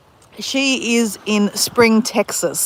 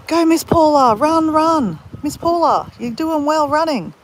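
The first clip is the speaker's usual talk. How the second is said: mock cheering; 6 semitones higher, slower than usual. Teasing Miss Paula that she's the runner, mock cheering.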